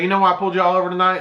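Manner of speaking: quick Georgia cop accent, imitated; Southern cop accent. Cop questions driver at the traffic stop, Southern accent. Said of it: "it wasn't that thick of an accent".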